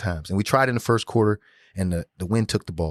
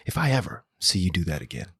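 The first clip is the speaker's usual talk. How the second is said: calm coach voice; 2 semitones lower than usual. Retold or imitated. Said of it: "he said it just calm like this".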